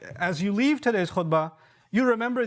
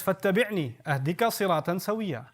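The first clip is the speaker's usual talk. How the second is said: measured Arabic recitation of scripture; chanted Quranic Arabic; much faster than usual. Acted. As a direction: recite the verse with tajwid cadence. Quotes Quran verse in Arabic.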